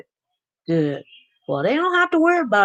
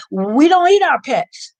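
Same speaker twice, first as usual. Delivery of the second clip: retold yell; 5 semitones higher, 5 dB louder than usual. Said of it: "He yelled out".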